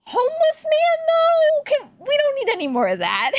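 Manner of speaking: loud, high-pitched protest breaking into a laugh; half-laughing high yell of disapproval; exclaiming objection. Real, not acted. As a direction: cry out in comic outrage. Mock outrage at the catcaller.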